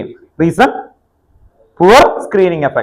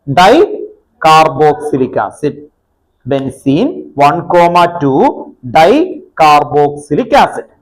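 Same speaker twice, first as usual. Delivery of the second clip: slow, evenly chunked dictation; much slower than usual. Real, not acted. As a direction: repeat it slowly for people writing, pausing between parts. Teacher repeats name as dictation. (പറഞ്ഞെഴുതിക്കുന്ന പോലെ പതുക്കെ)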